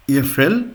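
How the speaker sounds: F L run together as one word with short A umlaut first. Shown as a demonstration. Teacher giving a short umlaut example, careful pronunciation. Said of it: "short umlaut of A".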